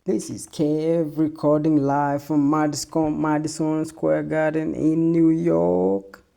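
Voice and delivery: hammed-up radio host opener; mock radio DJ. Podcaster playing radio DJ to listeners, hammed-up announcer voice.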